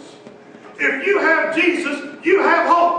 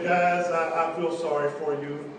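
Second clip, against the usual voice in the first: kind voice; 9 semitones lower, 6 dB quieter than usual. Retold or imitated. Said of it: "Jim just spoke up in a very kind voice".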